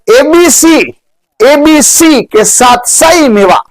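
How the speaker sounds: high, slow and stretched memory line; high, slow mnemonic. Shown as a demonstration. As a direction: chant the trick high and slow for the class. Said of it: "teaching a mnemonic".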